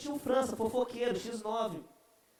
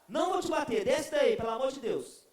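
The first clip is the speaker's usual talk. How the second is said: grandma promising not to hit him; mock frantic grandmother; pleading grandma; 2 semitones higher, 4 dB louder than usual.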